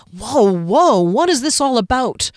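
captain stepping between quarrelers; calming shout. Acted. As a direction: break up the fight. Derry breaks up quarrel.

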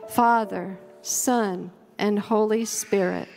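measured covenant prayer, each phrase given room; slow, thoughtful prayer. Real, not acted. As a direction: read slowly and reverently, pausing after each phrase. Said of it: "read it slowly and thoughtfully".

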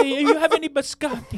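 high, laughing mock Italian accent; cartoon Italian through a laugh. Silly accent bit.

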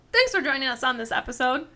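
talking through a mouthful of pizza; mouth full. Real, not acted. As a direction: say it round a bite of food. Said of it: "She's now choking on food".

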